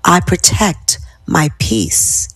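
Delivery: slow affirmation. Shown as a demonstration. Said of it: "how my tenor of my voice is going down".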